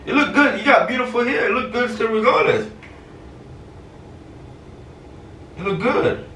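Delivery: fake reassurance. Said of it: "'cause it's a prank".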